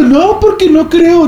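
high, whiny excuses from a scaredy-cat; mocking a friend too scared to come out; mock scared whine. (burla aguda y quejumbrosa de un miedoso)

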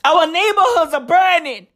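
desperate Californians shouting for help; pleading shout. Retold or imitated. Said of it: "They be like".

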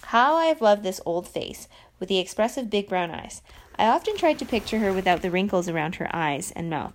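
even, careful book reading; reading aloud. Acted. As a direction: read the passage to your viewers. Reads novel aloud on camera.

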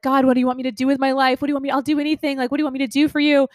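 quick, high, restless asking; eager pleading. Retold or imitated. Her younger self begging God for direction, fast and high. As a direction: rush the questions, desperate for an answer. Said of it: "I was like".

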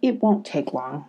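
calm, low and soothing. A narrator's reading. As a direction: soothe a frightened fox pup. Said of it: "Shine spoke very calmly".

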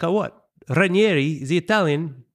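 high mock old-school Italian father; old Italian dad. Son telling dad about the program, high mock Italian father. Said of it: "He's like".

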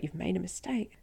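soft, even and controlled; quiet, calm correction to police. Retold or imitated. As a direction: hold back, say it as calmly as you can. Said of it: "I said it as calmly as I could".

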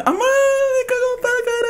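put-on very high child's wail; whiny kid. Little boy whines to his mom, very high child voice.

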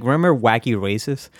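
ordinary talk, nothing marked

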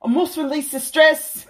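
mock brooding hero line; northern accent impression; mock Jon Snow accent. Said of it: "he was just like".

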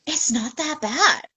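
measured, retold downplaying; retold reassurance. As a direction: play it down slowly, voice lifted a little. Retold friend's first verdict.

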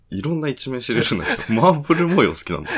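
high, quick, laughing remark; laughing in amused surprise. Real, not acted. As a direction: tease through real laughter, pitched well up.

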